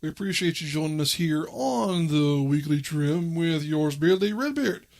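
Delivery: upbeat radio host intro; radio announcer voice. Shown as a demonstration. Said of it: "That's my attempt at sounding like a radio announcer".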